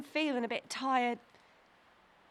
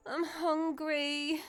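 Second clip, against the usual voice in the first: tired sigh; 5 dB quieter, slower than usual. Acted. Girl tired after walking all day.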